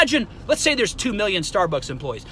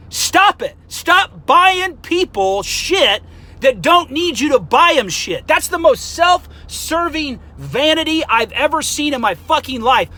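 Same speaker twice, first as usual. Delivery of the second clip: ranting; 5 semitones higher than usual. Real, not acted. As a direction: really tear into them. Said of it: "see, now I'm getting hot".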